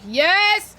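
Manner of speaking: high, loud burst of delight; excited yes. Real, not acted. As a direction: cheer it out loud. Delighted reaction to food idea.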